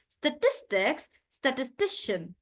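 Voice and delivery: statistics and statistician with clear stress; model stress. Shown as a demonstration. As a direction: model both words cleanly. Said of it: "like that".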